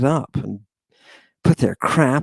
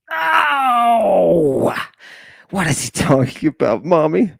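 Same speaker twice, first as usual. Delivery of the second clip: put-on high, far-off kid's voice with a cry of "Oh"; child asking mommy; 5 semitones higher than usual. Little kid asking his mommy about the lecture, in a high child voice. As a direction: play a puzzled little kid tugging at mom.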